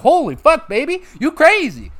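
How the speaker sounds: high, loud startled squawk, imitating; shocked mock voice. Gamer voicing CJ shocked by his girlfriend, high mock squawk. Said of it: "You're like".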